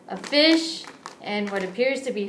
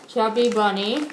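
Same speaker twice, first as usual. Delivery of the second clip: cheeks stuffed with snacks; mouth full; 4 dB louder than usual. Real, not acted. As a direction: talk through a full mouth. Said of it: "Maybe I can do Chubby Bunny with this".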